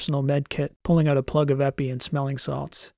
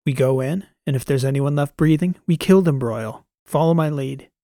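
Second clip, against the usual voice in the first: hard commanding voice; gruff soldier; 5 dB louder than usual. Acted. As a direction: give orders like a veteran. Transom orders the assault.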